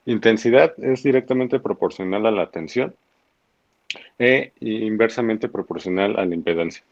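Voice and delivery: slow, careful recitation; slowly. Real, not acted. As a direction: say it slowly and deliberately. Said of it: "lo dijo muy despacio".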